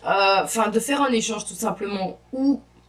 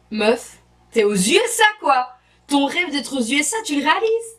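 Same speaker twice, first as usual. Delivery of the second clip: excited self-talk; 5 semitones higher, 4 dB louder than usual. Retold or imitated. Telling herself she's in the USA.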